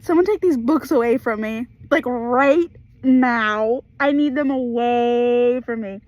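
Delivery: loud, half-joking plea to take the books away; overwrought plea. Real, not acted. Fan pleading loudly with viewers to take the books. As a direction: beg loudly, overwhelmed by the book. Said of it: "it's making me emotionally unstable".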